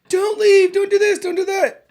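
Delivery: squeaky parody of a clingy wife; mock whiny wife. Mocking a wife begging her husband not to leave, high whine.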